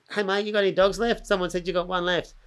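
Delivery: light impression of a bloke angling for a pup; eager caller. Caller asks breeder for a leftover dog, lightly mimicked eagerness.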